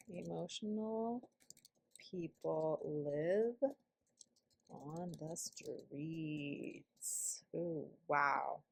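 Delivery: slow, sinking into a whisper; slowly drifting down to a whisper; fading to a whisper. Real, not acted. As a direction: let it trail off into a whisper. Tapping phrase fading to whisper.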